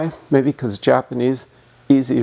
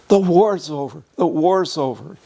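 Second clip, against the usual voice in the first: excited cry; 4 semitones higher than usual. Retold or imitated. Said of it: "people started running around crying".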